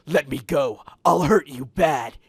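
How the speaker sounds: loud threatening shout. A narrator's reading. Shadow shouts threats at Joey, struggling. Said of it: "it shouted in a masculine voice".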